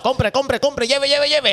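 market vendor calling out; hyped fairground barker. Acted. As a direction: hawk it like a street seller. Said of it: "merca-, mercadeo ficticio".

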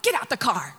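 acted-out exasperated school drop-off; fed-up parent. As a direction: hustle the kids off impatiently. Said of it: "Or you gotta take them to school".

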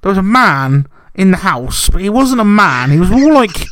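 insistent, mock-earnest dream telling; imitating Jay. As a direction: push on like they must be heard. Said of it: "impression of Jay".

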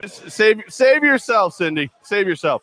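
loud theatrical warning; hammed-up cry to flee; mock dramatic plea.

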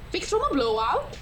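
half-hearted cartoon voice, questioning; attempted Frozen character. Shown as a demonstration. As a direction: try the catchphrase, unsure. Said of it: "What's the one in Frozen?".

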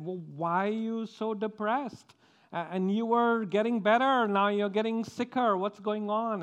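lightly acted puzzled nurse; perplexed questioning. Nurse asking a patient why they got worse, perplexed questioning.

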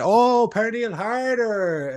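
high, drawn-out "oh, now I get it"; hammed-up penny-drop, stretched out high; dawning realisation. Finally understanding the Danish fan, exaggerated realisation.

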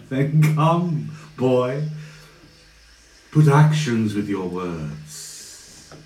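slow menacing dare; villain challenge. Acted. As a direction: dare him slowly. Villain goads.

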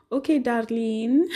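imitating a Spanish speaker, drawn out slowly; slow, mock Spanish accent. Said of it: "I've heard a Spanish person say".

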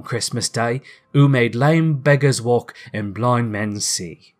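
understated tender father; a touch of emotion while retelling; lightly voiced father, moved by his child; tremulous. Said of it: "Bob's voice was tremulous".

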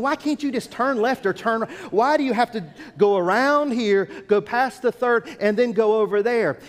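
mock-exasperated driver, pitch lifted. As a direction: retell it as a frustrated driver's complaint. Acting out frustration with roundabouts.

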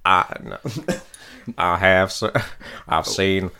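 lightly voiced cartoon impression, slowing down; a half-hearted cartoon drawl; Cleveland. Cleveland asked about Star Wars, halting impression. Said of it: "let John ask Cleveland a question".

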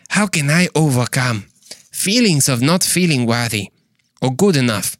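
put-on Zimbabwean accent, every phrase set apart. Host rereads for those not paying attention, Zimbabwean accent. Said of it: "question from Zimbabwe, apparently".

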